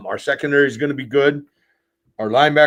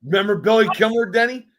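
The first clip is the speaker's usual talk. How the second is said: insistent, excited; 7 semitones higher, 3 dB louder than usual. Real, not acted. Repeats the question more insistently.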